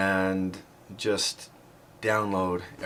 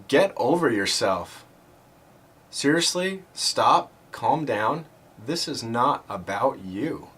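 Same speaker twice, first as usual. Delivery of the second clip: firm retold command, raised in pitch; a sharper, higher voice telling himself off, moderately louder; loud inner voice; 3 semitones higher, slower than usual. Voice in his head tells the complaining runner off, loud inner voice. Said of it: "this loud voice in my head".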